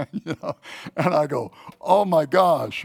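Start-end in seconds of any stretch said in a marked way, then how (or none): 1.8-2.8 alarmed oh my gosh. Retold or imitated. Reaction to ominous news.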